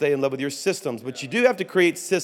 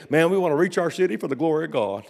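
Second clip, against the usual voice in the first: pastor's religious answer; 2 semitones higher, faster than usual. Retold or imitated. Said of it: "That's how he said it".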